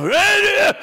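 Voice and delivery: mock high loud yell; joking shout. Shown as a demonstration. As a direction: playfully shout it out. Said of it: "이렇게 하면 돼요".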